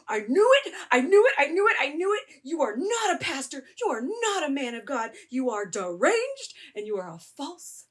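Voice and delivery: high-pitched, gleeful accusation; retold burst of excited vindication; excited outburst. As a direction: blurt it out high, repeating in triumph. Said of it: "I was so excited. I was like".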